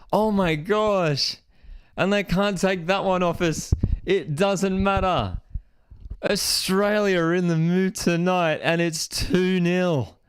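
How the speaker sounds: slow, drawn-out amazed joy; stunned delight. Real, not acted. Streamer to chat savouring the second goal, slow amazed joy. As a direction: savour each word in happy disbelief.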